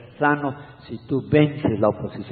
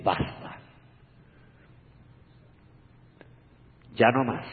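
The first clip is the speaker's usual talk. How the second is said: voice of God; 3 semitones lower, 6 dB quieter than usual. Acted. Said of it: "Dios va a decir".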